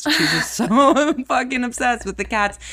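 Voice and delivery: mock teasing. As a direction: tease a friend with exaggerated, laughing exasperation. Acts out planned teasing about cats.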